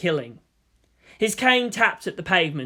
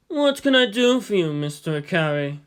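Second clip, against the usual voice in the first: lightly raised official's voice; Yang's voice. Acted. Yang greeting Shinji at his office, lightly voiced. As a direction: greet the visitor politely.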